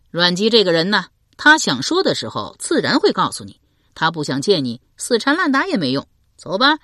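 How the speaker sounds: 更响亮的随性男声; 大声而不耐烦地劝人走; 刘伶劝说. Acted. 刘伶 speaks. (刘伶大声劝邓毅别缠着)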